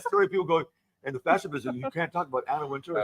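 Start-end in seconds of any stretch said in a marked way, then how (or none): 1.0-3.0 scandalized warning. Retold or imitated. Fashion people warning her off the subject, scandalized.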